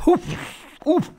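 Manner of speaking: short winded puffs after a blow to the belly; winded gasps. A narrator's reading. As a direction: knock the wind out on each ouf. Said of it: "en a le souffle coupé".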